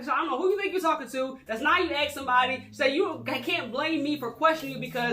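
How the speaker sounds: imitated indignant rant; retold telling-off. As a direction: act out her going off on him. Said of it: "she goes off on him".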